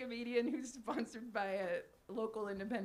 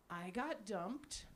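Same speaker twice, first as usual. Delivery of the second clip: mock sad; 5 semitones lower, 6 dB quieter, much slower than usual. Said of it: "every statement ... gets slightly sadder".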